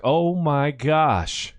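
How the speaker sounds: drawn-out, slow "oh my gosh"; retold amazement. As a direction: stretch it out in mild awe, retelling. Retells his amazement at the comeback.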